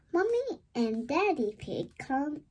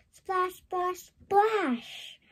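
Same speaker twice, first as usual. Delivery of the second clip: excited splash; 7 semitones higher, much slower than usual. Acted. Bath splashing in story.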